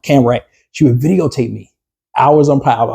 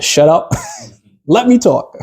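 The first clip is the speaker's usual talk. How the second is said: laughing mock wife; 7 semitones higher, slower than usual. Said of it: "And she said".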